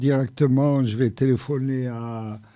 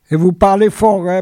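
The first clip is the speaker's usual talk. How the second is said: to someone hard of hearing; 5 semitones higher, 8 dB louder, faster than usual. Real, not acted. Host strains to hear the caller.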